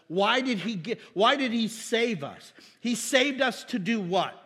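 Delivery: rising fervor. Real, not acted. Preacher asking the church why God saved us, fervent. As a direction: build the questions with fervor.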